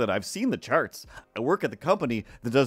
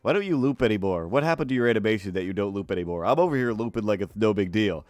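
stuffed-up character voice with a lisp; lisping, indignant sidekick; 3 semitones lower, 4 dB louder than usual. Acted. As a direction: scold a teammate as a lisping busybody. Sidekick scolds a teammate.

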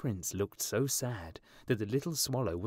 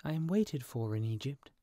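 lightly voiced, higher bird; busy little swallow; 4 semitones higher than usual. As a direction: excuse yourself in a higher voice. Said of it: "said the swallow".

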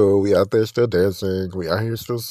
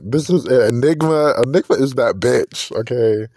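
excited. Retold or imitated. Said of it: "I'm like".

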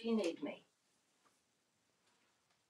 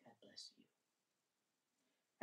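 slow, breathy whispered blessing; 7 dB quieter, much slower than usual. Real, not acted. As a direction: whisper it very slowly and softly. Whispered blessing after a sneeze.

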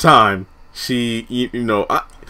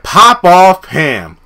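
sassy taunt; 4 semitones higher, 5 dB louder, much slower than usual. Retold or imitated. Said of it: "when this fool said".

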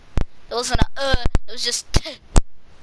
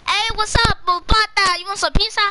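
mock friendly greeting; 9 semitones higher than usual.

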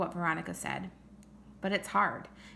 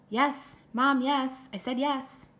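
higher, louder impatient yes; exasperated agreement; 7 semitones higher, 5 dB louder, slower than usual. Acted. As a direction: insist to mom, fed up with being asked. Son impatiently confirms he agreed.

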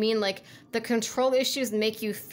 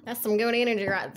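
half-hearted attempt at a country accent; badly faked country accent, given up midway; fake country accent; 2 semitones higher, 4 dB louder than usual. Shown as a demonstration. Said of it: "a fake country accent".

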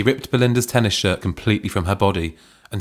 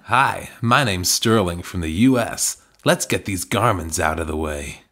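a mild put-on American drawl, slow; American accent; 4 semitones lower than usual. Reading the erotic novel aloud, a light American accent. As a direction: slowly play a Yank introducing himself, lightly American. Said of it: "Please do an accent".

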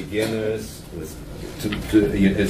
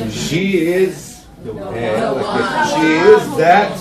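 imitating confused student; 3 semitones higher, 5 dB louder, slower than usual. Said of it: "they want to say".

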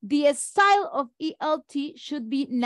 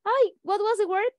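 mock-flustered, higher voice, rising questions; flustered learner searching for a word; 6 semitones higher than usual. Teacher imitating a learner who forgot a word, higher and rising. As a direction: play a learner groping for a lost English word. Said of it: "You are thinking like".

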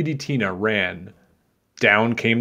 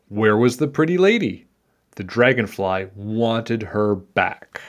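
put-on measured read-aloud for children; story narration; 4 dB louder than usual. A narrator's reading. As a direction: tell it like a picture-book tale.

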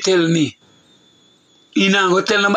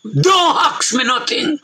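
"Don't ask me nothing" much higher and slow, "Don't" rising; emphatic repeat; 8 semitones higher, slower than usual. Shown as a demonstration.

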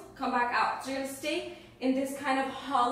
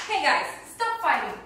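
scolding shout; 4 semitones higher, 6 dB louder than usual. Real, not acted. Yelling at fighting kids.

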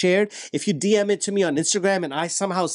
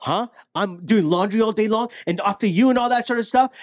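wife's retort; 5 semitones higher than usual. Retold or imitated. Wife's retort in acted quarrel.

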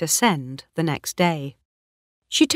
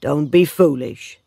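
firm, composed reply; calm; 5 dB louder than usual. A narrator's reading. Oak answers Bathsheba's dismissal, calm and firm. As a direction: keep it level and steady, voice firm. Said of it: "said Gabriel calmly".

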